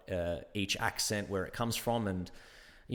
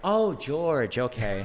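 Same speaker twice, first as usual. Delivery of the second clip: loud, high American 'Oh, George' of recognition; American barista; 4 semitones higher, 6 dB louder, much slower than usual. Retold or imitated. American barista finally understanding customer, exaggerated American accent. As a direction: mimic an American finally getting it. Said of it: "I'm like".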